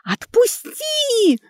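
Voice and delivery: drawn-out high scream; shriek. Acted. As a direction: scream it with all your lungs. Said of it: "завизжала во всю силу своих лёгких". (визг во всю силу лёгких)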